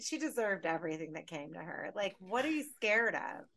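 exasperated rant. Retold or imitated. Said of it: "At one point, I was like".

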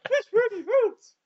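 high squeaky voice through laughter; just hit in the groin. Pretend. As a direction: squeak it out like you've been kicked. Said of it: "I just punched him in the balls".

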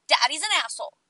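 whispered, trailing off. Retold or imitated. A child whispering what mommy always says. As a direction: whisper it like a little girl's secret. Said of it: "she goes".

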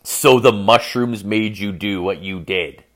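slow, measured ominous restatement; ominous quote. Retold or imitated. Storyteller repeating girlfriend's words as a warning, ominous. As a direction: repeat it slowly as a warning sign. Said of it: "When somebody says to you".

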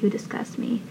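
imitating a whispered parting insult; disgusted whisper. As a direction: breathe it out in a whisper. Storming-out line, retold.

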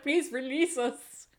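pleading dogs. Retold or imitated. Barking dogs begging to be let out, mock pleading. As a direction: plead lightly as the penned-up dogs. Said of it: "They're like".

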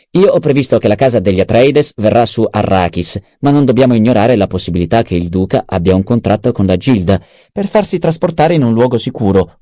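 lightly voiced schemer. Adviser briefing the baron on the duke's possible escape, lightly voiced. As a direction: lay out the options with lifted pitch. Narrator voices Peter's exposition.

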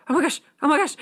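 high-pitched excited gushing; imitated giddy little outburst. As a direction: act out giddy, girlish excitement.

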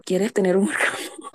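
giggling through the line, playful; half-laughing tease to a friend; laughing offer. Retold or imitated. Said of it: "Y le lanzaba".

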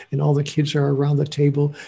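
normal talking voice

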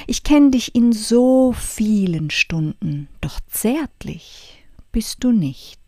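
slow, dramatic verse reading with hushed refrains; poem recitation. Acted. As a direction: recite a reproachful ode, swelling and then dropping to near-whisper.

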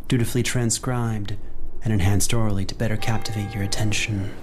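ominous storyteller voice; dark narrator intro; dramatic narration. Acted. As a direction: draw them into the tale.

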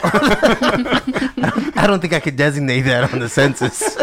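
laughing through the words, slowed down. Real, not acted. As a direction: chuckle out the line. Joking about census category.

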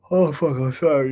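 words stretched through a real yawn. Real, not acted. Vlogger yawns mid-sentence while talking to camera, yawning. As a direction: talk mid-yawn, then apologise.

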